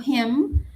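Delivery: "him" with a throaty J-like h at the start; him with a J sound. Shown as a demonstration. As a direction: breathe a rough h into "him". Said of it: "como con una J al inicio".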